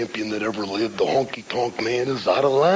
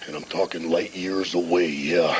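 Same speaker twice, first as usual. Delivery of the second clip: Macho Man rant. Retold or imitated. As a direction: ramble like a hyped-up wrestler. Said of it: "Macho Man's greatest rant of all time".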